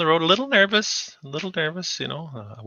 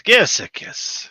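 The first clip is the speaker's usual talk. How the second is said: high, slow, hammed-up Scottish come-on; mock Scottish; 10 semitones higher, slower than usual. Co-host jokes about a Glasgow kiss, in a high, hammed-up Scottish voice. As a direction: stretch it out in a silly high Scottish voice.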